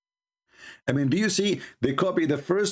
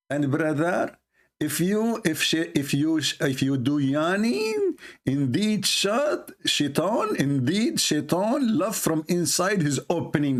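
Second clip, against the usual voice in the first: mock preacher; 2 semitones higher, slower than usual. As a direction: sell it like a pushy preacher, brother. Mocking preacher on yawning.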